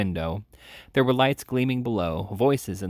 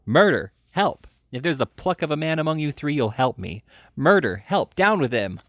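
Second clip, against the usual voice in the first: high, loud cries for help; shrieking Murder and Help, much higher and louder; desperate cries for help; 6 semitones higher, 5 dB louder than usual. A narrator's reading. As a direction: scream for help with all your might. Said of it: "Pouring out these cries".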